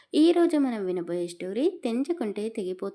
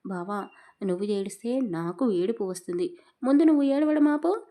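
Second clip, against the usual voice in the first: tearful plea; 4 dB louder than usual. Acted. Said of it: "కన్నీళ్లను తుడుచుకుంటూ".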